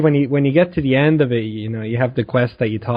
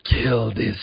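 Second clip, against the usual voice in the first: low, soft, very slow solemn voice; Dark Lady; 5 semitones lower, 5 dB quieter, slower than usual. Retold or imitated. Dark Lady hands out a kill quest, slow and ominous. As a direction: intone it slowly, like a dark oracle. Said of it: "the Dark Lady going".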